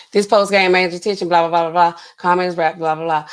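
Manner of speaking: brisk blah-blah summary; skimming readout. Real, not acted. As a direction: race through it as filler to be skipped. Skims the post with blahs.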